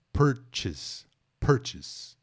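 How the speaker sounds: "purchase" said as PER-chis, stress on the first syllable; correct pronunciation. Shown as a demonstration. Teacher models "purchase" for the students. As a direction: say "purchase" clearly, PER-chis, not "pur-chêize". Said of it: "Atenção à pronúncia".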